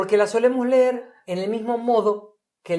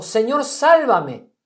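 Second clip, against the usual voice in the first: slow, louder plea with higher pitch; cry for help; 5 semitones higher, 6 dB louder, much slower than usual. A narrator's reading. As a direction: cry out as if sinking. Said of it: "Entonces gritó diciendo".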